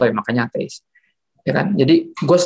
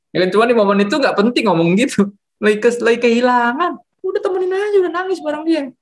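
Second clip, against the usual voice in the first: much higher, urgent pleading; emphatic plea; 10 semitones higher than usual. Real, not acted. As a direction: beg them to just stay and cry together.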